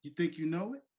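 taunting heel promo; wrestling promo. Pretend. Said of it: "bring this in segment style".

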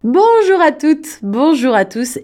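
drawn-out, high, loud hello; enthusiastic greeting. Real, not acted. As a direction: greet the listeners with big energy. Radio host opens the interview. (salut enthousiaste et appuyé)

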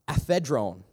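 Aphedron said as AH-feh-drohn; careful pronunciation. Shown as a demonstration. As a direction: sound out Aphedron syllable by syllable. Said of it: "I wanna make sure I pronounce it right".

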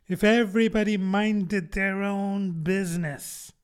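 growled with a hoarse rasp; hoarse, growling duchess. Acted. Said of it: "in a hoarse growl".

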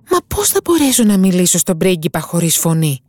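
lightly voiced mermaid, alarmed; worried mermaid. Mermaid asks the witch how she'll speak, worried.

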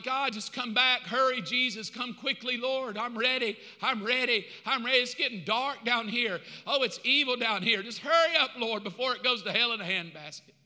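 acted-out urgent prayer, pushing harder on "hurry up"; impatient pleading. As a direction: beg God to hurry, half exasperated.

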